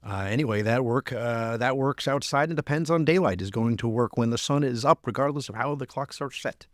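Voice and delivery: lightly put-on South Dakota accent; a hint of South Dakota twang. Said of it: "do my South Dakota, uh, uh, accent now".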